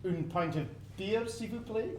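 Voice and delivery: put-on a Scot hamming up a French accent; a Scot faking French to order a beer; fake French accent. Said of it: "You don't sound very French to me".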